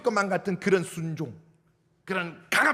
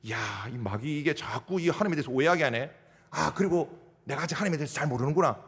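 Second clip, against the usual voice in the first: realizing believer; 5 semitones lower than usual. Retold or imitated. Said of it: "순종이 안 돼?".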